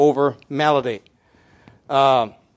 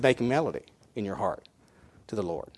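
softer, lower quoted verse with "Lord" fading; hushed repeat; 6 semitones lower, 9 dB quieter, faster than usual. Shown as a demonstration. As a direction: lower and hush the verse for weight. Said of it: "He didn't say make rhythm".

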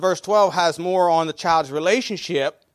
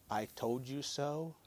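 soft, slow, smug I told you so; mock smug; 5 semitones lower, 16 dB quieter than usual. Someone tempted to gloat at a friend, soft and smug. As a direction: murmur it like a knowing teacher. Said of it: "tell somebody".

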